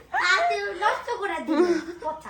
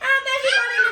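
laughing, higher and louder; laughing shout; 3 semitones higher, 4 dB louder than usual. Real, not acted. Kids excited at paper shower. (হাসতে হাসতে চিৎকার)

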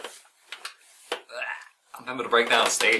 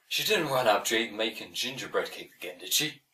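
put-on Irish accent; 3 semitones lower, 7 dB quieter than usual. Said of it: "do the whole script in an Irish accent".

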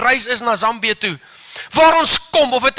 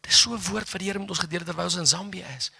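normal talking voice

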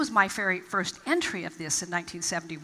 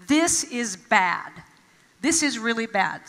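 slow mock dismay; slower than usual. Shown as a demonstration. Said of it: "you immediately are tempted to say".

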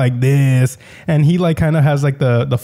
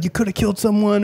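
mock scolding; 7 semitones higher, 3 dB quieter than usual. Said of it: "He's like".

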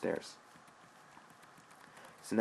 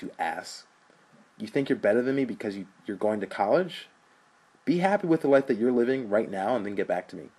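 angry brother; 2 semitones higher, 4 dB louder than usual. Acted. Rich berates brother.

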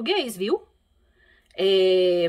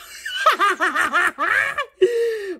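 long, high-pitched laughing fit; laughter; 10 semitones higher than usual. Real, not acted. Retelling daughter's complaint about the mattress, high laughter. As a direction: burst out laughing.

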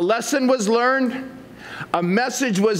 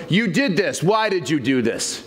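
accusing; 3 semitones lower than usual. Retold or imitated. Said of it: "No, it's".

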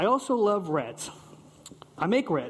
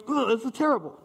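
put-on childish disgust; 5 semitones higher than usual. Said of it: "like children and going".

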